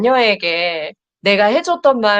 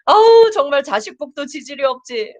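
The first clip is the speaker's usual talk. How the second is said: hammed-up sigh of a fed-up mom, higher; mock-exasperated parent; 6 semitones higher, 3 dB louder than usual. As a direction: groan it like a parent who's had enough, half joking. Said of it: "이런 생각 드는 날도". (자식 때문에 속 터진 엄마처럼 과장해서 한탄하듯)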